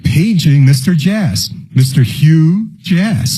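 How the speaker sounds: flat echoey pa page. Pretend. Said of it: "can you still have people paged at the airport".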